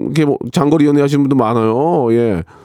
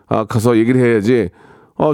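ordinary talk

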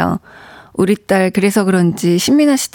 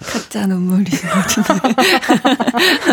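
fake crying; much slower than usual. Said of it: "가짜 눈물 너무 티나게".

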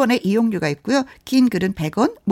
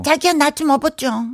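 put-on cutesy girlfriend; 5 semitones higher than usual. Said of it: "acted couple skit".

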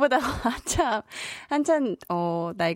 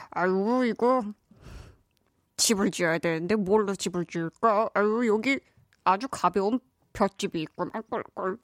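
pig voice. Acted. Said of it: "동물 흉내도 내고".

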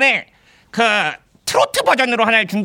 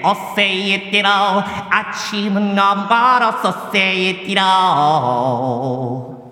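digital echo; 3 semitones lower, much slower than usual. Shown as a demonstration. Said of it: "에코 유-, 유지해 주시고요".

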